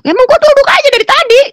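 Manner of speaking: loud, very high-pitched retort; irritated outburst. Retold or imitated. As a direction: snap back at your husband in a shrieked protest. Acts her irritated retort to husband.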